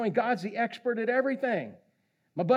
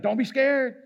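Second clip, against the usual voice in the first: firm, louder mock advice; insistent reassurance; 6 semitones higher, 5 dB louder than usual. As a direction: press it home like a cowboy coach. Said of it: "you're like".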